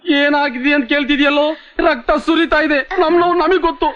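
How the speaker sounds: high-pitched, aggrieved protest; pained indignation. Acted. Injured patient answering the one who asked about the wailing, pained and indignant. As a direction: protest in pain, pitch held up. Injured person snaps back in pain.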